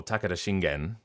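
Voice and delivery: Takeda as TACK-eh-da, Shingen as shin-GEN; front-stressed, full last vowel. Shown as a demonstration. Voice actor offering another reading, full-vowelled Shingen. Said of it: "whether you're pronouncing it".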